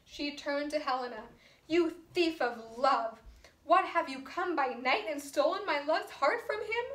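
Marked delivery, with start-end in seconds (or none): 1.7-6.9 mad. Acted. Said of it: "So now she's mad at Helena".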